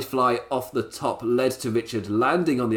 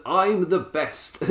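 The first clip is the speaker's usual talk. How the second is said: higher, drawn-out mock whine; mock whinge; 6 semitones higher, much slower than usual. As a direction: imitate a self-important whinge, slowly. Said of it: "kind of whinge".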